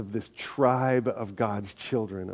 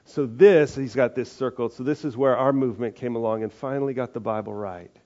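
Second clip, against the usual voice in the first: smug cartoon guy; 5 dB louder than usual. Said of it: "and the guy says".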